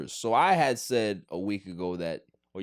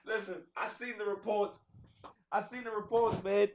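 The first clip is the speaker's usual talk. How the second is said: higher, much softer pleading; begging softly; 12 semitones higher, 5 dB quieter than usual. Real, not acted. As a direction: beg quietly, almost under breath. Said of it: "I'm begging you".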